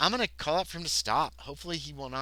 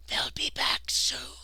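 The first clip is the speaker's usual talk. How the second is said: very slow, stretched-out whisper; reedy whisper; much slower than usual. A narrator's reading. Hidden man warning that they will return, reedy whisper. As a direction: whisper the warning with hardly any voice. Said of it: "barely a reedy whisper".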